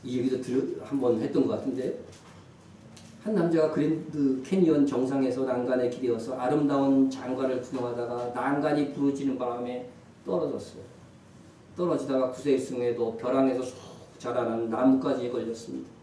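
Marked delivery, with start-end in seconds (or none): none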